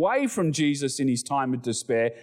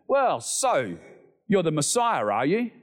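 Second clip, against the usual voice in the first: sarcastic. Retold or imitated. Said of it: "That sarcastic tone in his voice".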